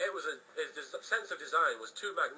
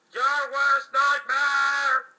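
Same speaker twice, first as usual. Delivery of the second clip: slow, loud, high boast; slow loud villain threat; menacing villain; 10 semitones higher, 14 dB louder, much slower than usual. Acted. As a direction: stretch every word like an anime villain. Jack emerging.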